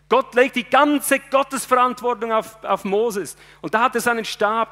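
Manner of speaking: fervent sermon voice, rising and pushing; preaching at full force. Acted. Preacher driving home his sermon, fervent preaching. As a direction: preach it to the congregation with fire.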